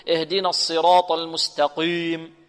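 slow recitation with ق in المستقيم made too heavy; wrong heavy qāf. Shown as a demonstration. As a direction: thicken the "qī" of المستقيم towards "qē". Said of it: "وهذا خطأ. مثل مستقيم، يقول".

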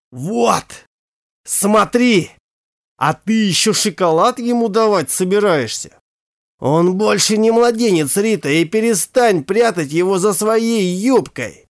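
mild mock yell. Father to mother, a mock angry yell. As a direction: make her look at the damage. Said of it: "заорал".

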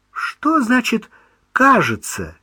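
high, astonished Что значит кажется, кажется repeated with a falling tone; mother repeats her son's кажется in astonishment. Acted. Mother repeats кажется in high astonishment. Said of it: "изумлённо спросила мать".

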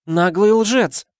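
high, slow, loud shocked cry; gasping outrage. A narrator's reading. Sad girl crying out at the lying mouse. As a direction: gasp it out, outraged and tearful. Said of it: "ахнула печальная девочка".

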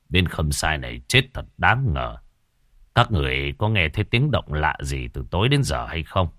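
official questioning soldiers about strange noises; stern official. Acted.

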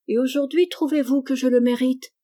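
a hint of a demanding daughter; child's challenge. A narrator's reading. Daughter challenges mother about deserving love, lightly voiced demand.

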